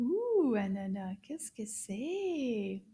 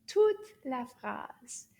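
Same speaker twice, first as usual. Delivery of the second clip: slow model line; 3 dB louder, much slower than usual. Shown as a demonstration. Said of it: "Let's say it all together".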